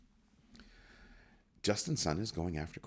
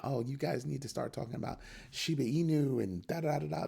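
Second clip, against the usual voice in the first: high, sing-song parody of a campaign pitch; mock promo pitch; 10 semitones higher than usual. Vlogger mocking a crypto campaign, high sing-song parody. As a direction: lampoon the hype ad.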